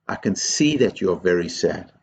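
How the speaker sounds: low, sincere sympathy; heartfelt. Shown as a demonstration. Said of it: "These words have to come with heart".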